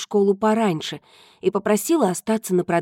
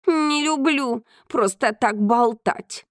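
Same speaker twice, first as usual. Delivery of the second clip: snooty bored cat; 4 semitones higher, slower than usual. Acted. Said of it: "фыркнул кот".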